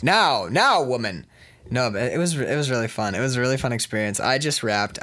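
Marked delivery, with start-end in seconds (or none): 0.0-1.3 mock scolding. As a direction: playfully put your partner in place. Mock scolding the teasing partner.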